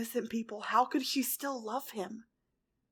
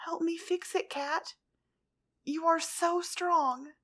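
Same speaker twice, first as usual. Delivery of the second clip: coaxing; 6 semitones higher, slower than usual. A narrator's reading. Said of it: "she coaxed".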